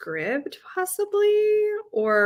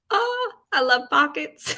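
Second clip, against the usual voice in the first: high-pitched, excited gush; delighted gushing; 7 semitones higher, 3 dB louder than usual. Real, not acted. Gushing over shorts with pockets.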